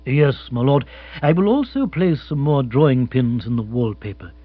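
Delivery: unruffled, measured formality; Jeeves, formal butler. Acted. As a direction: report smoothly and deferentially.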